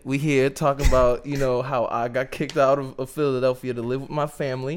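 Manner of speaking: put-on half-hearted New York accent; lightly put-on New York accent for an impression; badly faked New York star impression; crappy New York accent. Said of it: "a really crappy New York accent".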